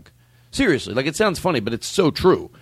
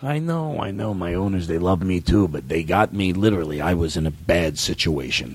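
dog voice; 4 semitones lower than usual. Pretend. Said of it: "should I put on the dog voice".

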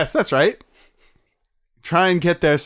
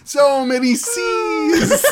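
laughing; 11 semitones higher, 3 dB louder, much slower than usual. Real, not acted. Laughing through punchline.

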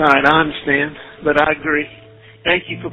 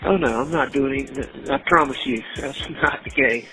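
payphone call. Real, not acted. Jail phone call played.

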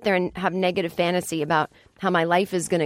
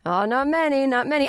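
mock answer; 6 semitones higher than usual. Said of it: "he goes".

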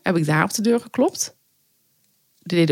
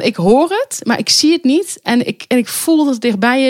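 high, tense mock horror; half-acted dread, voice pitched up; spooked; 6 semitones higher, 3 dB louder than usual. Hunting the ringing phone outside, mock-spooked and high. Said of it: "best wel een beetje horrorachtig".

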